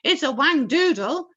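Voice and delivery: high loud yell. A narrator's reading. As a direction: yell out the name. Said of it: "yelled the head of the fire department".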